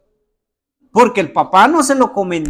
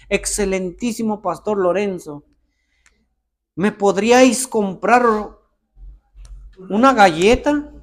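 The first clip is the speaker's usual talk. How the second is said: mock formal request. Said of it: "acaso me dice".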